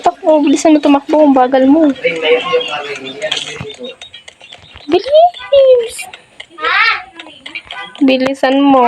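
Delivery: urgent, high hurry-up calls; while running. Real, not acted. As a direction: rush them along, urgently. Urging character to run.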